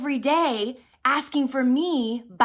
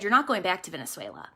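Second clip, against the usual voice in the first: low, soft and quick, God repeating himself; hushed, firm divine answer; quiet voice of the Lord; 6 semitones lower, 5 dB quieter, faster than usual. Retold or imitated. The Lord repeating to her softly she won't return. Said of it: "And he said".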